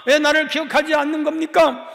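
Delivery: a preacher acting out a hurt believer's protest to God, rising; pleading protest to God. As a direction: argue with God, your voice rising line by line. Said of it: "이렇게 하나님께 따지는 것도".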